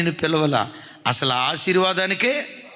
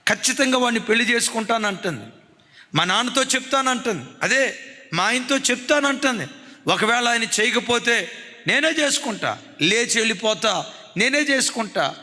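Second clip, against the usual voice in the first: arguing daughter; 4 semitones higher than usual. Retold or imitated. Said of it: "అని నాతో గదిలో వాదిస్తుందయ్యా".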